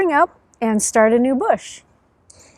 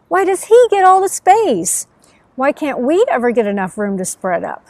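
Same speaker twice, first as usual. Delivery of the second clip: complaining plants; 2 semitones higher than usual. Acted. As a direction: whine it like crowded little plants. Plants complaining among themselves.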